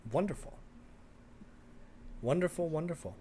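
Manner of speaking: high, pleased repetition; delighted wonderful. Acted. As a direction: savour the good news. NPC delighted.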